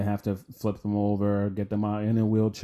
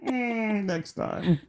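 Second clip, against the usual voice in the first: even higher, giggling next time; higher laughing echo; 12 semitones higher than usual. Retold or imitated. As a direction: laugh harder, falling at the end. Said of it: "and we'll see you next time".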